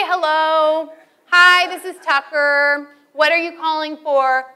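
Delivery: mock phone greeting. Shown as a demonstration. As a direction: show a cheery phone message. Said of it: "You say".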